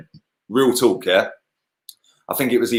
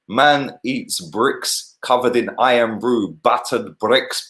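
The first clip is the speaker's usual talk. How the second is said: slow, lightly put-on Scottish accent; a half-hearted Scottish accent, drawn out; playful mock Scottish accent, slowed down; bad Scottish accent; slower than usual. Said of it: "That's a shit Scottish accent".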